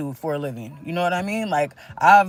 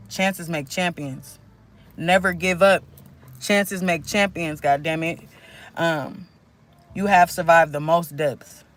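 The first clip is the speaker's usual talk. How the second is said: channeled message reading. Acted. Reads channeled messages to viewers.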